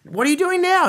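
wife asking God what he is doing, amazed; incredulous question. Retold or imitated. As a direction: ask in amazement. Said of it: "he goes".

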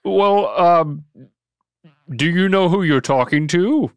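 lightly voiced jolly boss; a hint of Santa. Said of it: "I'll be Santa".

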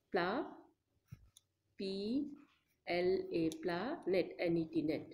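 "planet" split into letters P L A, N E T; sounding out words. Shown as a demonstration. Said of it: "You have to break into".

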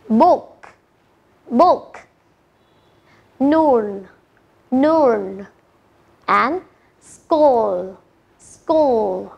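each word said twice with a clear "oo"; oo sound demo. Shown as a demonstration. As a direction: model the "oo" words slowly and clearly for the class. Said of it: "được phát âm là U".

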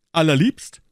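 delighted shout. A narrator's reading. Guardsmen applauding the joke, calling out. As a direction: call it out with relish. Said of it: "riefen die beiden anderen Gardesoldaten".

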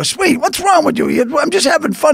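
high teasing voice; mock teasing. Lenny teasing Sweeney lying on the floor, high and mocking. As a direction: tease him, high and loose.

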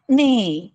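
mild neigh; horse neigh. Shown as a demonstration. Teacher neighs lightly for the children. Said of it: "अशा पद्धतीचा आवाज horse काढतो".

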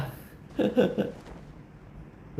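breathless high-pitched wheeze of a laugh; real breathy laugh at himself; wheezy high laugh. Real, not acted. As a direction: let out an airy, squeaky giggle. Laughs at own shouting.

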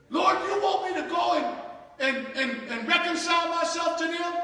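pleading, resentful outcry; aggrieved complaint. Acted. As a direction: play a hurt believer whining about enemies. Preacher voices aggrieved believer.

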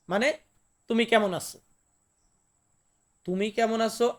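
usual speaking voice

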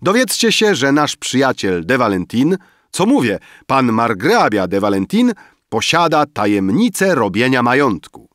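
loud, high-pitched address to guests; public announcement. A narrator's reading. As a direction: announce it grandly to the whole gathering. Emil announces to the gathered guests. (głośne ogłoszenie wobec zebranych)

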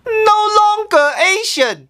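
high, shocked disbelief; shocked outcry. Acted. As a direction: cry it out in disbelief. Shocked echo of the statement.

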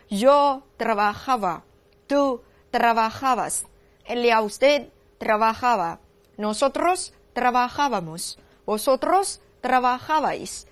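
slow, measured conjugation drill in Spanish; follow-me recitation. Shown as a demonstration. Teacher having students repeat along, slow measured recitation. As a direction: recite slowly, pausing between pronoun and verb. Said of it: "大家再跟我走一遍哈".

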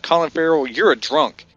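retold jab, close to own voice; understated mock scolding; lightly voiced accusation. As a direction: accuse him matter-of-factly, lightly acted. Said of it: "he's like".

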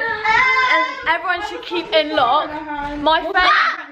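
laughing. Real, not acted. Excited reveal while laughing.

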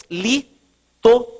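LITORÂNEA broken into slow, separate syllables; sílaba por sílaba. Real, not acted. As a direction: dictate "litorânea" with long gaps between syllables. Dita a palavra enquanto escreve. ("litorânea" ditado pausadamente, sílaba por sílaba)

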